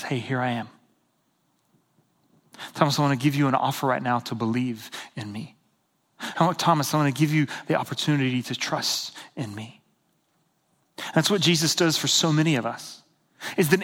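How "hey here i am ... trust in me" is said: soft, low, gentle offer; quietly caring acted quote; loving. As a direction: offer it tenderly, without pressure. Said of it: "looks at Thomas lovingly".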